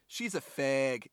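put-on drawn-out kid's line in a botched Boston accent. Podcaster retelling a Cops episode's little kid, botched Boston accent. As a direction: attempt a Boston kid, landing nearer Minnesota. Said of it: "you sound like you're from Minnesota and not Boston".

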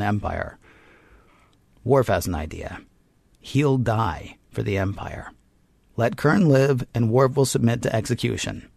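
measured storyteller's read with deliberate pauses; recap narration. A narrator's reading. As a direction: narrate the plot in scripted, dramatic beats. Reads a scripted episode recap.

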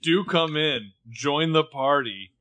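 slow, sarcastic mock welcome; petulant brat. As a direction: drag out the invitation like a sulky brat. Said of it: "like a petulant brat".

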